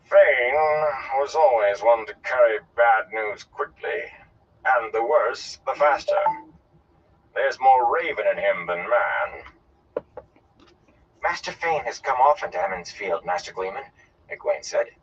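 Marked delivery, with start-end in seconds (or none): 0.0-9.4 slow, drawn-out disdain; deliberate, weighty contempt; scornful. Acted. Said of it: "replaced by scorn". 11.2-13.9 lightly voiced young woman objecting; a hint of reproof; mild disapproval. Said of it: "a hint of disapproval".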